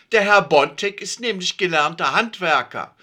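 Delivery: proud Siggi. A narrator's reading. Siggi defends friend.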